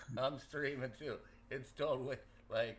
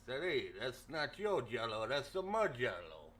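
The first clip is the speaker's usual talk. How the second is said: lightly voiced Philadelphia Italian accent; a hammed-up but mild Philly Italian accent; jokey Philadelphia Italian accent, barely put on; bad Philadelphia Italian accent. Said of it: "my bad Italian, Philadelphia Italian accent".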